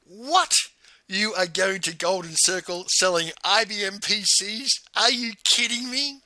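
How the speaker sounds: great surprise. Retold or imitated. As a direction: re-enact stunned disbelief, pitch jumping up. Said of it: "I reacted with great surprise".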